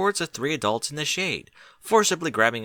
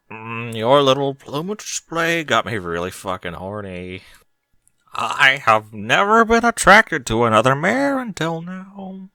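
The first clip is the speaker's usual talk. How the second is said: hushed whisper; 2 semitones higher, 6 dB louder than usual. A narrator's reading. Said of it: "said Barry in a hushed whisper".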